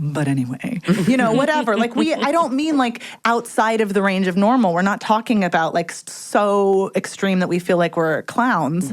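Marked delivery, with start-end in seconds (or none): 0.0-0.8 low-pitched, dropped delivery. Showing how freely going down low in pitch sounds. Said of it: "going down low".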